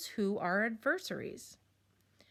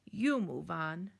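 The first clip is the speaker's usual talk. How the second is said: slow, lower muttered comeback on You move on; muttered retort; 3 semitones lower, slower than usual. Acted. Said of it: "she muttered".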